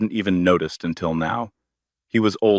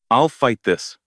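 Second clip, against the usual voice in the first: angry snarl, pitched up and pushed; 4 semitones higher than usual. Acted. Grant snarls his defiance at Camille. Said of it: "Grant snarled".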